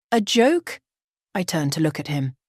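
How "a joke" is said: incredulous. Acted. Bride incredulous.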